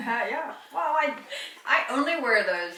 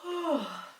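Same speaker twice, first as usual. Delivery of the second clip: yawn; 5 semitones higher, 6 dB quieter than usual. Real, not acted.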